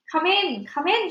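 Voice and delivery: high, loud impatient witch snap. Acted. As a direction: hurry the old witches in sharply. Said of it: "she snapped".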